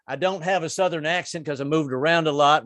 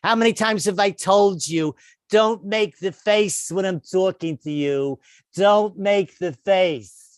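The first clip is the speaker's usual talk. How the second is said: put-on slow, nagging New York Jewish accent; New York Jewish accent, a wife nagging her husband; 4 semitones higher, slower than usual. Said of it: "she's got that New York Jewish voice".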